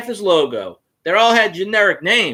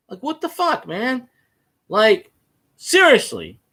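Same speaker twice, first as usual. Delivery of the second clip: incredulous; 5 semitones higher, slower than usual. Retold or imitated. Reacting to fan's question.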